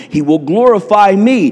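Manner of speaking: ordinary talk, nothing marked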